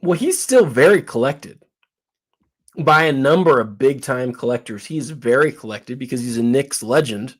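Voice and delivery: talking with a mouth full. Real, not acted. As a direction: speak around a bite of food. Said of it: "I got with my mouth full a little bit".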